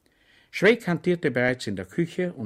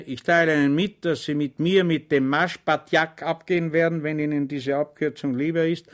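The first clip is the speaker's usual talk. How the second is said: solemn voice; 4 semitones higher, 5 dB louder than usual. Acted. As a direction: announce it with ceremony. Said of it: "mit feierlicher Stimme". (feierlich verkündend)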